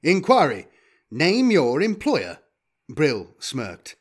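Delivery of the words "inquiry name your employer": loud, high robotic demand; measured, forceful robot voice; war robot. Acted. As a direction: interrogate like a machine. Robot interrogates Brill.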